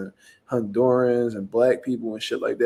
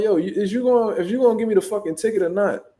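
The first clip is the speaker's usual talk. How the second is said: higher-pitched mild exasperation; retold getting heated; 6 semitones higher than usual. Driver demands an answer from officer, retold irritation. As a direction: press for an answer, mildly worked up. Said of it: "now I'm getting hot".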